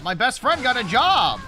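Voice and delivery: bursting with happy excitement; excited. Real, not acted. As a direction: blurt it out, thrilled. Happy news about best friend.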